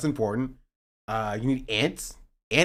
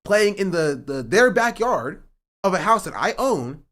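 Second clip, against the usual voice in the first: indignant rant; 4 semitones higher, 3 dB louder than usual. Real, not acted. Ranting against HOA rules.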